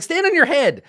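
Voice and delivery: very high, loud goblin advice; a goblin fussing over a hurt friend; bossy goblin. Retold or imitated. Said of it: "Then it's like".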